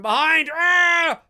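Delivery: Chucky springing out with a scream; jump-scare yell. Acted. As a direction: build into a high, loud yell. Acts out Chucky's sudden attack.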